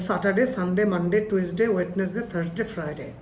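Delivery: day names ending in short "ডে", no glide; students' mispronunciation. Retold or imitated. Teacher imitating his students' weekdays, mispronounced. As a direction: rattle off the days with Bangla vowels. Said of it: "তারা বলে".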